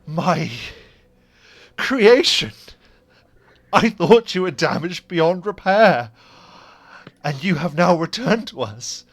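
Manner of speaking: high, loud, dramatic wonder; grand, exclaiming delight; theatrical amazement. Acted. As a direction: proclaim it like a creator seeing his creation live. Creator overjoyed at his revived creation.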